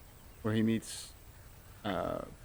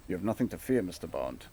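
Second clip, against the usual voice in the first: ship's captain; 2 semitones lower than usual. Retold or imitated. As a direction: imitate a captain reassuring Bond. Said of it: "And the ship's captain, uh, is like".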